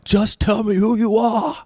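high, drawn-out comic plea; hammed-up high call, last word stretched; mock pleading shout. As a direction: wail it slowly in mock exasperation. Mock plea to silent Aussie listeners.

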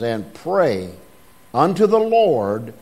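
"And pray unto the Lord" with "pray" weighted; stress on pray. Shown as a demonstration. Preacher stressing the word pray to the congregation, emphatic. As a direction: lean hard on "pray" like capital letters. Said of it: "with all capital letters".

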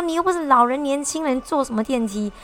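imitating a fierce auntie; retold fierce scolding. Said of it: "骂得很凶哦".

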